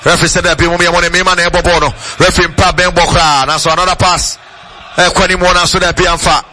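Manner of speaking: radio commentator calling the game; live play-by-play. Real, not acted. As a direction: call the match as it unfolds.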